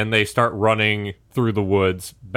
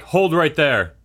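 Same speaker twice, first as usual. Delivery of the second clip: lightly voiced pursuer, pitched up; pursuer's challenge; 5 semitones higher than usual. Game master as pursuer halting the rider, mild challenge. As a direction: give a mild in-character order to halt.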